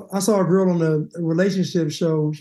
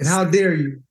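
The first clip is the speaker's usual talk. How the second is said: mock racist white woman; 3 semitones lower than usual. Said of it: "sounded like a racist white woman".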